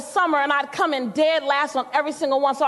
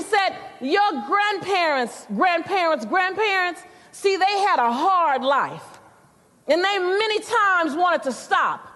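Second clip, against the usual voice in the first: grandma lecturing her granddaughter, raised and emphatic; grandma preaching; 4 semitones higher than usual. Retold or imitated. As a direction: lay down the family wisdom. Grandma's sermon-like lesson.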